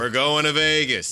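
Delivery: a touch of a 1930s tough guy; lightly voiced old-timey Gus; old-time thirties guy voice. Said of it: "All right, I'll be Gus".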